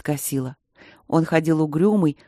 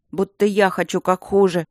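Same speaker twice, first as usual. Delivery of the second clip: snide; 2 semitones higher than usual. Acted. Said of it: "съязвил Женька".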